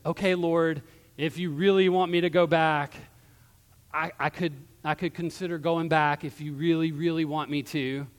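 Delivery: reluctant, hedging mock apology; half-hearted apology. Balaam apologizes to the Lord after seeing the angel, half-hearted. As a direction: give in grudgingly, with halting hesitation. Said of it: "has a half-hearted apology".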